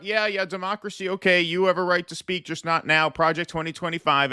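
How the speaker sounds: high dismissive mock Kamala. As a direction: brush them off like a bored politician. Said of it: "so she starts out".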